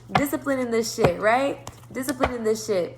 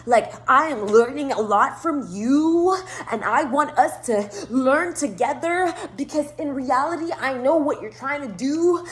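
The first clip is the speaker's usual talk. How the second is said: mock pretentious guy; 3 semitones higher, slower than usual. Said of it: "he's trying to be all".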